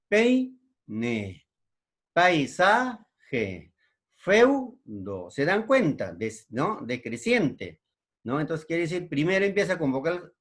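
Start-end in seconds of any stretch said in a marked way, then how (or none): 0.1-5.3 "Peine", "Paisaje", "Feudo" broken into spaced syllables. Shown as a demonstration. Teacher reading out examples, "Peine", "Paisaje", "Feudo" split by syllables. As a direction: hold each diphthong together in "Peine", "Paisaje", "Feudo", pausing after it.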